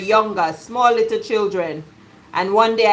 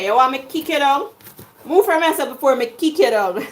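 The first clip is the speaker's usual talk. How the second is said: Jamaican patois threat; 3 semitones higher than usual. Acted. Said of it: "as we would say in Jamaica".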